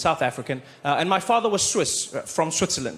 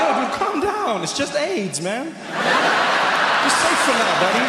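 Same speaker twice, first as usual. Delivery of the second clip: mock reassuring; 7 semitones higher, 3 dB louder, much slower than usual. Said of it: "I was like".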